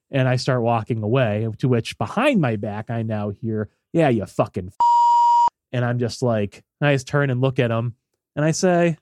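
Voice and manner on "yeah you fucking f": louder, slowed, spat-out insult; imitating an angry man cursing; snarled curse. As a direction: curse at his back.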